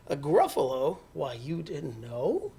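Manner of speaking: mouse's mild mock surprise; feigned surprise. Mouse answers the owl, lightly feigning surprise. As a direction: draw out the question, feigning surprise.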